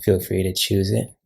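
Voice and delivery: measured welcome with pauses between phrases; guided meditation intro. Acted. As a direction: gently lead listeners into a meditation, phrase by phrase.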